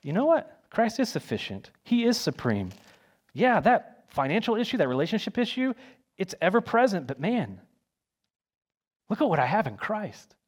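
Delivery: bright, rising voice of sudden relief; joyful realization. Pretend. Pretend listener freed from worry, voicing the change joyfully. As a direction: sing out the good news, lifted high. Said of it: "see if your life doesn't change".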